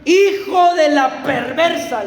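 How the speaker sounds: slow, drawn-out mock insult, half laughing; hammed-up angry slur; retold insult. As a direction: spit the insult out slowly like a furious king, with a chuckle. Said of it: "¿Y saben qué le dijo Saúl a Jonatán?".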